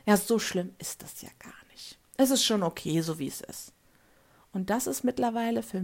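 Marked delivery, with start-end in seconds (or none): 0.1-3.7 hushed, brushing-off mock voice; a light mock of a shrugging complainer; dismissive quote. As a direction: imitate someone waving off help. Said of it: "sagen die sofort".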